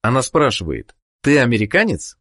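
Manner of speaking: ordinary talk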